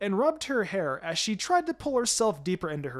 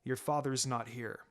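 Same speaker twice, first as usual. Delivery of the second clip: a hint of a stern teacher, quiet and steady; firm mentor; 5 semitones lower, 6 dB quieter than usual. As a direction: lay down the law without raising the voice. Kakashi asserts authority.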